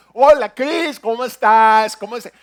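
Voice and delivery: loud, high, exaggerated open-mouth greeting; mock the friend's borrowed accent; imitating the copied way of talking. Preacher imitates her friend back from vacation, hammed-up open mouth. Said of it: "me llega y me dice".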